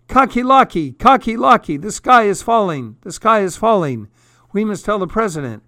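very high, urgent yelling; alarmed yell. A narrator's reading. Birds rush to warn their rooster friend, high yelling. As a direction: shout the warning in a storybook panic. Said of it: "and yelled".

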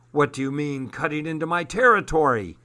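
a touch of indignant demand, rising. Acted. Monkey man confronts Armand, mildly indignant demand. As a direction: challenge the intruder on your turf. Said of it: "demanded the man with the monkey".

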